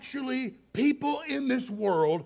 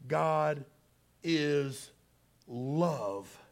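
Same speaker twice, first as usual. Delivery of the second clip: soft slow quote; 5 semitones lower, 6 dB quieter, much slower than usual. Retold or imitated. Man quoting the sign.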